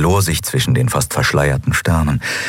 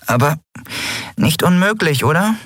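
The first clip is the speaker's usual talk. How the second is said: 1 hohe Figurenstimme; 10 semitones higher than usual. Acted. Nelen widerspricht, hohe Stimme.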